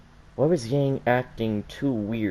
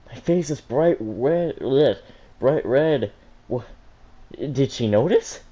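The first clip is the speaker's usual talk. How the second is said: slow, higher, mortified groan; 4 semitones higher, 4 dB louder, slower than usual. Acted. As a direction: dread seeing the red face. Yang sees her red face.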